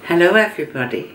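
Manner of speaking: put-on posh greeting; lightly posh hello to camera. Real, not acted. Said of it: "why are you putting on a posh voice?".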